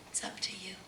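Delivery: soft whisper to the listener. Real, not acted. Preacher urging listeners, soft whisper. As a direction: breathe it to them.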